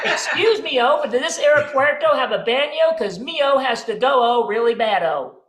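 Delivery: American faking Spanish by adding O; fake Spanish. American tourist asks for airport bathroom, fake Spanish. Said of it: "think we can speak Spanish".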